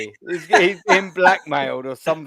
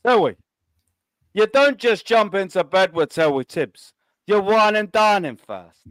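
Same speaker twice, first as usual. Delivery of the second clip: lightly voiced wheeler-dealer salesman; a hint of a pushy car dealer; Terry Tibbs; 3 semitones higher than usual. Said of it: "my dodgy impersonation".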